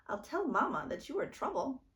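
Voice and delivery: threatening tattle. A narrator's reading. Big sister threatens.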